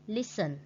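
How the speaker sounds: LISten with the first syllable stressed. Shown as a demonstration. Teacher modelling listen with stress on LIS. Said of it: "stress on the first syllable".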